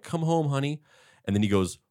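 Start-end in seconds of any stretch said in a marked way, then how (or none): 0.0-0.8 lightly voiced sweet mom, lifted and soft; a hint of a coaxing mother on the phone; foster mother. Foster mom calling her boy home, lightly imitated. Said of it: "they're like".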